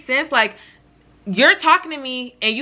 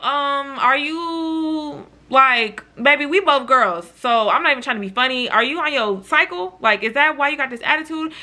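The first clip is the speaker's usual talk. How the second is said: higher, hesitant opening; tentative probing; 4 semitones higher than usual. Retold or imitated. Asking the irritable friend about the attitude, gingerly. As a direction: ease into a touchy question, pitched up.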